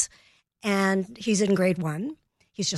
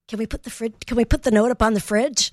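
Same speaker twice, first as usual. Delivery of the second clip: put-on eager kid; 5 semitones higher, 6 dB louder than usual. Excited child asking, retold.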